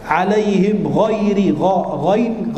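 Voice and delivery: ghairi with a gargled back-of-throat gh; clear ghain. Shown as a demonstration. Preacher drilling the letter, ghain gargled clearly. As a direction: make the gh in gha, ghain distinct. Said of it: "ghainnya diperjelas".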